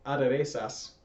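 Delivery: "aderezas" restarted, then read very slowly and clearly; teacher correcting herself and reading slowly for students; slow corrected reading. Shown as a demonstration. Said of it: "or sorry".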